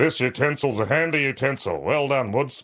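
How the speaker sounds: throaty, back-of-throat headmaster voice. Imitating a woodwork teacher praising a student's work: throaty headmaster voice. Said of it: "voices down the back of their throat like a headmaster".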